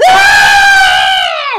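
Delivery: put-on very high, loud kid shriek; child's scream. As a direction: imitate a screaming little boy. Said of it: "he's just screaming".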